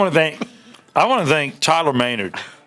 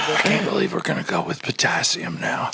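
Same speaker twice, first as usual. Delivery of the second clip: breathy close-mic whisper; ASMR whisper; 2 semitones higher, 3 dB quieter than usual. Pretend. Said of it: "doing my A S M R voice".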